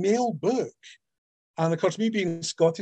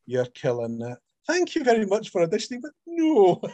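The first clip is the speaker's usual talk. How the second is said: mock polite rejection; 5 semitones higher than usual. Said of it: "I got one who was just deadpan".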